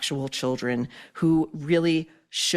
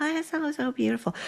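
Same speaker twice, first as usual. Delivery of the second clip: very high child voice like cartoons, kiddy voiceover style; 10 semitones higher, 3 dB quieter than usual. Mocking how a voiceover artist who does kids sounds: imitating a child voiceover voice. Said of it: "it sounds a little too like".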